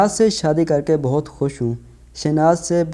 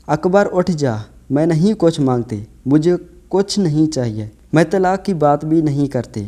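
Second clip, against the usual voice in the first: crying out in grief. Retold or imitated. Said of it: "میں چیخنے چلانے لگی". (غم میں پکارتی ہوئی فریاد)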